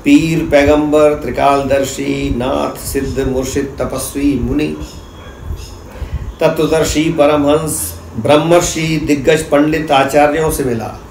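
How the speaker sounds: declaimed verse, phrase by phrase with pauses; measured, rhythmic spoken poem; poetry recitation. Acted. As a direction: recite to an audience, repeating lines and building lists in a steady cadence.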